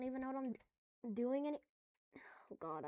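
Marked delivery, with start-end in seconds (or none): 2.2-2.8 whispered. Real, not acted. Frustrated aside while building.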